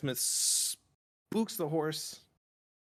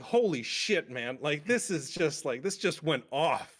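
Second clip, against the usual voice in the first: higher, retelling his own shocked reaction; stunned excitement; 5 semitones higher than usual. Retold or imitated. Telling friends how the wedding scene floored him, excited and higher. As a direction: replay the jaw-drop at the bloody wedding. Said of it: "I was just like".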